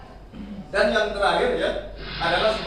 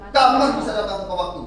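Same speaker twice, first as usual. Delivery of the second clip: louder, fast telling-off; stern scolding; 6 dB louder, faster than usual. Retold or imitated. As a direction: rattle off the rule like an angry teacher. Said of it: "Ngomongnya pasti gitu". (guru menegur dengan keras dan cepat)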